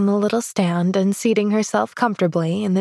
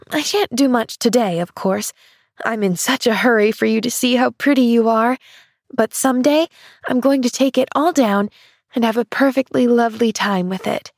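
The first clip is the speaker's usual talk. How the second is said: crying out eagerly; 3 semitones higher than usual. Acted. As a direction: promise it with bright eagerness. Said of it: "she cried".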